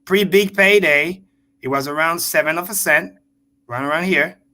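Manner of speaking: slow, deliberate, pausing between phrases; said again very slow. Shown as a demonstration. Streamer to his viewers, repeating the numbers very slowly. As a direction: spell it out slowly so nobody misses it. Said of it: "I'm gonna say it again very slow".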